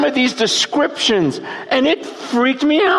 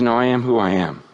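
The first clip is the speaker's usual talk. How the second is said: much lower, weighty divine voice; voice of God; 12 semitones lower than usual. Acted. Preacher voicing God answering Moses, low and grave. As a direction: let God's name land low and grave.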